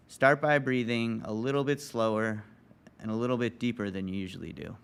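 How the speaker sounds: calm, measured breathing guidance; guided meditation. Real, not acted. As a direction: guide listeners into stillness, leaving long pauses.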